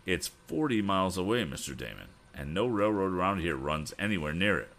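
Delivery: understated despair, sinking at the end; hopeless. Acted. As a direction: explain with mild resignation that all is lost. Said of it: "his voice was hopeless".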